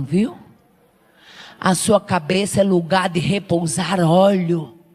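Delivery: low, hushed, tender preaching. Real, not acted. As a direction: speak it low and close. Soft lowered prophetic address. (palavra profética suave e baixa)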